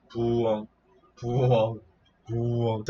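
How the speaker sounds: spaced Korean owl hoots; owl hoot imitation. Shown as a demonstration. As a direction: show off the owl call. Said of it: "how to appreciate the sound".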